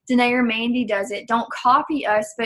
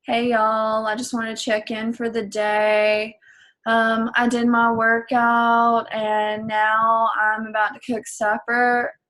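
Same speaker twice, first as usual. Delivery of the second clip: bored, unenthusiastic; slower than usual. Shown as a demonstration. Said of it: "that is so boring".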